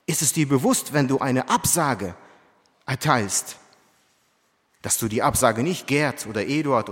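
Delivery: lauter nachgesetzt, „bewusst“ steigend betont. Shown as a demonstration. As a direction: mit Nachdruck wiederholt. (lauter, mahnender Appell an die Gemeinde)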